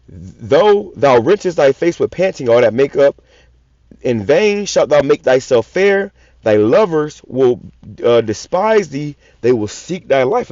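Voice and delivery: slow, weighty reading of a verse; scripture reading. Acted. Preacher reading a verse to his listeners, slow and weighty. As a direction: read the verse slowly, like a preacher.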